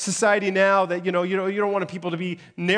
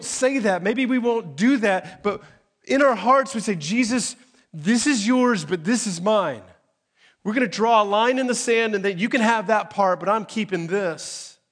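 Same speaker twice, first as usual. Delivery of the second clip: full-force preaching; 6 semitones higher, 5 dB louder than usual. Real, not acted. Preaching peak.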